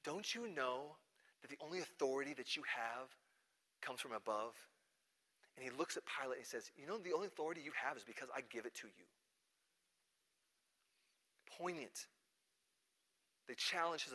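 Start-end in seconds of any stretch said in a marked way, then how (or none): 0.0-9.0 low-key, softer reply; quiet authority. Retold or imitated. Jesus answers exasperated Pilate about authority, quietly assured. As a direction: answer softly, with no need to push.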